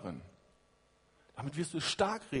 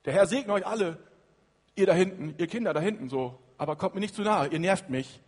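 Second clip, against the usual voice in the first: put-on louder, impatient wave-off of the kids; a preacher hamming up an annoyed Jesus; mock dismissive brush-off; 6 dB louder than usual. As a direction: shoo the children away, half-joking.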